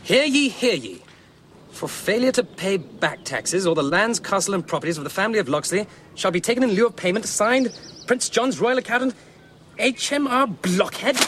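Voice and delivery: proclamation read aloud like a herald; mock royal decree. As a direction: announce it like a town crier. Reading out a tax proclamation.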